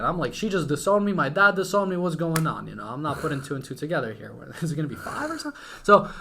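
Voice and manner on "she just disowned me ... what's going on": retold kid's panic, pitched up; mock panicked disbelief; freaking out. Kid fearing both parents disowned him, mock panic. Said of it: "I'm freaking out. I'm bugging".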